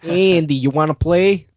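lightly voiced creepy doll; Chucky voice. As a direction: coax Andy like a sinister doll. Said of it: "pretty close to what he's doing".

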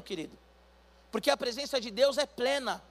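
usual speaking voice

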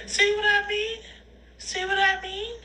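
high, laughing-crying giggle; teary laugh. Real, not acted. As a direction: laugh through the words.

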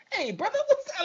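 high, hammed-up caricature greeting; mock dude voice. Mocking a white guy's try at slang, hammed up. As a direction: overdo a clueless dude's slang. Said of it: "a white dude's just like".

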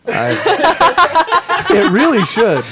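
laughing through the words. Real, not acted. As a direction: say it while still laughing.

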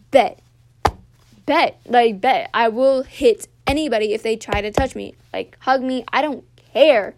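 re-live the fury, punching each line out; retold angry threat. To classmate Taylor, replaying her heated threat loudly.

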